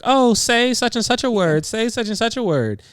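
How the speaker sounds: loud singsong mock-eager plea; imitating eager requests. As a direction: mimic an excited crowd begging. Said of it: "everybody was like".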